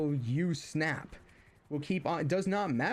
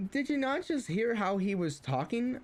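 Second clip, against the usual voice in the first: higher, exasperated retort; indignant retort; 8 semitones higher than usual. Retold or imitated. Answering grandmother at the dinner table, indignant and higher. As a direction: protest in disbelief. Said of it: "I'm like".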